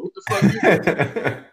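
drawn out slowly through a laugh; stunned, half laughing; slowed, laughing disbelief. Retold or imitated. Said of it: "I stopped at the door".

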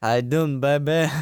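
mock British chat-up line; bad British accent. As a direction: echo it in a poor British accent. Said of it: "really bad British accent".

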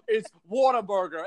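"Whataburger" with a Long Island "wawta"; Long Island accent. Shown as a demonstration. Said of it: "weird Long Island accent".

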